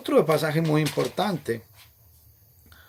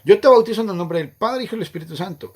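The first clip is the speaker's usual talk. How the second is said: raised, louder solemn recitation; baptismal formula voice; 7 semitones higher, 7 dB louder, faster than usual. Retold or imitated. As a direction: intone it like the officiant at the font. (fórmula bautismal, más alta y fuerte)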